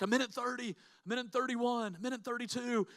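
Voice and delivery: high, strained mock-shouted count; imitated coach's count. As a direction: call out each second like a pushing coach. Coach counting down in his face.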